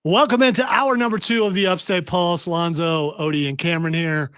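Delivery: upbeat show opener; radio host intro. Acted. Host opening hour two of the show, announcer style. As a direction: welcome listeners back like a host.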